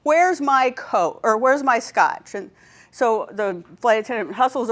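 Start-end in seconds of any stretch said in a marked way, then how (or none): 0.0-2.3 slow, drawn-out mock parrot squawk, a bit higher and louder; hammed-up parrot voice demanding a drink. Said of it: "the parrot squawks".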